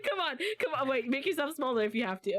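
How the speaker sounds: laughing. Real, not acted. Laughing while helping teammate.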